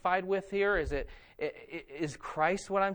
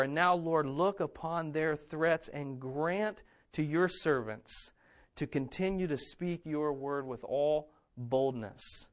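prayerful scripture reading; 4 semitones lower than usual. Acted. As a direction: read it as a humble prayer. Reads the church's prayer aloud.

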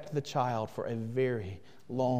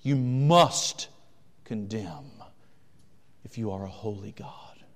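slow, lower and whispered, insinuating; devil's whisper; 4 semitones lower than usual. Acted. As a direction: hiss it like a tempter in the ear. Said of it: "the devil appeals to the holiness of God and says".

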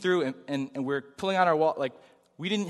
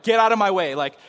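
louder indignant ranting; ranting at friend about the rude waitress, louder; angry rant; 2 semitones higher, 4 dB louder than usual. Retold or imitated. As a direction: vent at your friend, fed up. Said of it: "I'm, like, ranting and going off".

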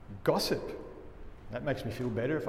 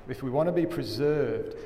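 ordinary talk

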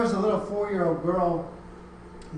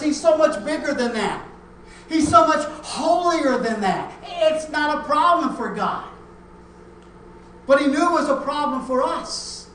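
higher, emphatic pulpit delivery; impassioned preaching; 9 semitones higher, 7 dB louder than usual. Real, not acted. Preacher explaining why God became human, impassioned preaching. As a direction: drive the point home to a congregation.

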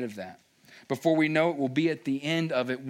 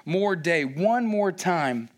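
Moses pleading. Retold or imitated. Moses asking God for mercy, earnest plea. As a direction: plead for one more day. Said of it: "He's asking".

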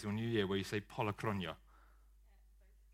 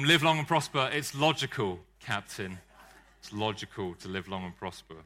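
a louder, hammed-up Spock; full Vulcan mode; 3 semitones lower, 5 dB louder than usual. Shown as a demonstration. Preacher hamming up Spock for the congregation, mock Vulcan. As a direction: ham up the logical Vulcan. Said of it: "get into full, um, Vulcan mode".

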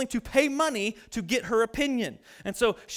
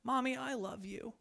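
put-on child repeating; 2 semitones higher, 11 dB quieter than usual. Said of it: "he says it again".

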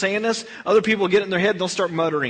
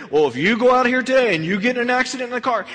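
fast, louder mock threat of hellfire; mock scare preacher; 4 semitones higher, 4 dB louder, faster than usual. Preacher mocking scare tactics at the congregation, fast and loud. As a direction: ham up a fear-mongering preacher. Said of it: "I'm not gonna".

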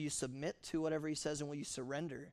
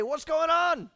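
loud, high, baffled "what's going on?"; mock bewildered shout; 11 semitones higher, 12 dB louder, slower than usual. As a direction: throw it out like a startled, clueless man. Mock quote of a confused Saul.

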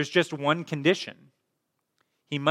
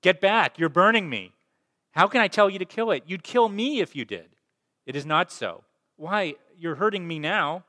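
loud, high pained cry, fast at first; 6 semitones higher, 5 dB louder than usual. Acted. Ghost cries out at the angel's burning hands, loud pained yell. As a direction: shout him back, he is burning you. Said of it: "the ghost cries out".

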